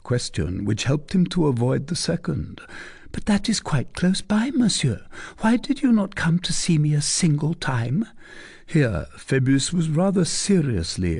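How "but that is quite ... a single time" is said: put-on a higher, teasing young lady's voice; coy young lady. A narrator's reading. Young lady teasing the captain, coy and higher. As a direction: play the coy cousin pressing her question. Fleur de Lis presses him.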